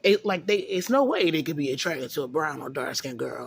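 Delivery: mildly sarcastic disbelief. Real, not acted. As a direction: voice their view with light sarcasm. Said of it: "And I'm being sarcastic".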